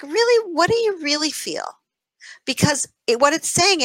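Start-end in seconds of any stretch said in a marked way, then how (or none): 0.0-1.8 higher, questioning "Really?"; mock disbelief. Talking back to her critical voice, pitched-up disbelief. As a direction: challenge the inner voice, pitched up. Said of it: "and I'm like".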